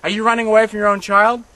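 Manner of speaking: yelling guard. Retold or imitated. Guard yelling at the fleeing mother, loud and angry. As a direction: bark it at her like a brutal guard.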